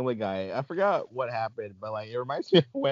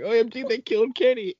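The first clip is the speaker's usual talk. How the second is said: mock shock; 11 semitones higher than usual. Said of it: "I was like".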